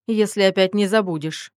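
snorting jab. Acted. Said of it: "фыркнув, поддела его мать".

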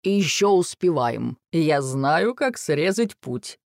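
drawn-out, self-assured bragging; boasting. A narrator's reading. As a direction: show off to the family. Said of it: "похвастался папа". (хвастливо)

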